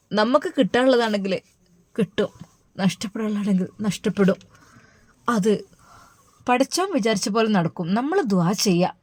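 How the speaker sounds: soft, gentle comfort to her daughter; consoling mother. Acted. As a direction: soothe the crying girl. (മകളെ ആശ്വസിപ്പിക്കുന്ന മൃദുവായ അമ്മ)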